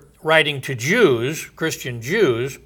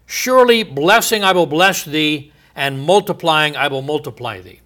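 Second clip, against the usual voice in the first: solemn scripture reading; 2 semitones higher, 3 dB louder than usual. Acted. Reads the apostle's quotation.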